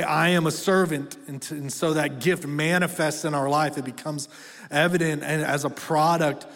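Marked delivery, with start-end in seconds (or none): 0.0-1.2 louder, ringing declaration; bold proclamation. Shown as a demonstration. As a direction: proclaim it to the whole room. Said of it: "And so we say".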